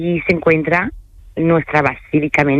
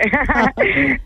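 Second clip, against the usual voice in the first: laugh; 9 semitones higher than usual. Real, not acted. Laughs about being bilingual.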